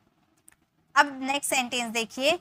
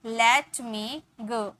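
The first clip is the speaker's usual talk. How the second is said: slow model phrase; much slower than usual. Shown as a demonstration. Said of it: "मैं बोलूँगी".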